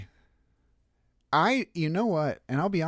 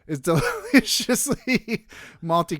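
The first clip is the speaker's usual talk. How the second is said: slow, loud, drawn-out "deliciously"; hammed-up radio ad with laughter creeping in; 5 semitones higher, 5 dB louder, slower than usual. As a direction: savour it like a cheesy announcer. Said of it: "in your most radio voice".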